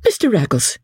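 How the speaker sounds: a touch of exasperation; passion of vexation. A narrator's reading. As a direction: call on him with mild vexation. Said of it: "in a passion of vexation".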